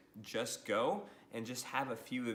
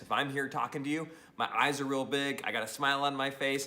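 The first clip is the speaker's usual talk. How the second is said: louder, bright-eyed lean-in energy; energetic; 5 dB louder than usual. Shown as a demonstration. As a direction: sell it like you're leaning into the camera. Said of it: "another way to show energy".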